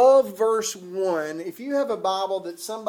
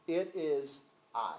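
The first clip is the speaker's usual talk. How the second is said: slow, much softer words of awe; hushed reverent; 5 semitones lower, 11 dB quieter, slower than usual. Shown as a demonstration. Preacher savours the phrase that gives him chills, hushed and slow. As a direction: let it land softly, with awe. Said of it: "this next phrase gives me chill bumps".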